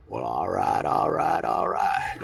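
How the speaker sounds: drawn-out rising all right, all right; hammed-up Trudeau at the dais; Justin Trudeau. Comedian doing Trudeau at the dais, rising and drawn out. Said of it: "I do an impression of Justin Trudeau".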